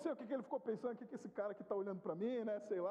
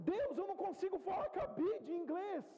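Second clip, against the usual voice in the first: revolt; 7 semitones higher than usual. Retold or imitated. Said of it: "começou a me bater uma revolta".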